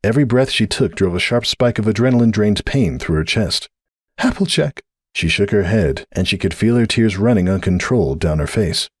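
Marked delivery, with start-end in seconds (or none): 4.2-4.8 high upset cry of her name; anguished cry. A narrator's reading. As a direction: cry out in dismay. Cupcake cries out.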